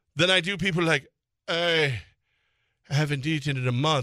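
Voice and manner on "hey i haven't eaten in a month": put-on English accent. Retelling what people asking him for money say, in a put-on english accent. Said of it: "you're using an English accent".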